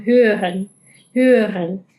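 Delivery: German hören. Shown as a demonstration. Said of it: "esta palabra significa escuchar".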